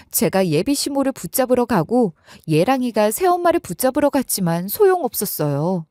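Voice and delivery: ordinary delivery, nothing marked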